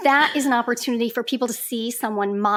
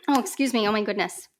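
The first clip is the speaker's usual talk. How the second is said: coughing fit, choked up; choking. Real, not acted. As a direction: talk through a choke.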